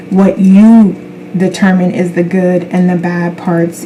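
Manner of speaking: ordinary delivery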